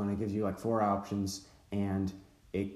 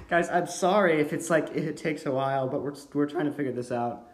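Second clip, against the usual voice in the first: voice cracking; 2 semitones higher than usual. Real, not acted. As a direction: voice cracking mid-apology. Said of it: "Your voice cracked".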